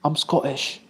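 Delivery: quick Scottish accent impression; mock Scottish accent; Scottish meme accent. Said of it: "I think of the "I'm Scottish" meme".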